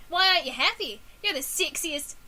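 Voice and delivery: acted line in New Zealand accent. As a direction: put on New Zealand vowels. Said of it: "that's the word I can do".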